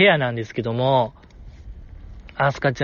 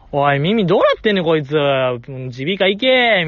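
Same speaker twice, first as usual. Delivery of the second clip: mock heckling. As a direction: pretend to heckle the screen. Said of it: "完全にヤジ".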